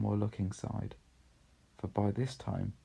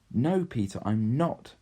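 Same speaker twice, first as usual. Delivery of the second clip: put-on louder, firm child's denial; firm protest; 4 semitones higher, 5 dB louder than usual. Lucy contradicting Peter, a firm louder protest. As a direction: push back firmly.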